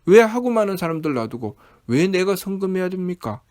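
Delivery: acted aggrieved questioning; mildly hammed-up complaint at being singled out; resentful protest. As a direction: press each question like an imitated grievance. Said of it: "라고 원망하죠".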